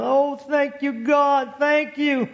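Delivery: hammed-up grateful wail; crying out loud. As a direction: act out an overjoyed cry to heaven. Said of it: "cried loud".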